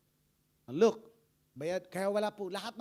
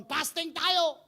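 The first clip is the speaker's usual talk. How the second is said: calling a fast; 7 semitones higher, 7 dB louder, slower than usual. Retold or imitated. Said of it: "pag sabi ko noon".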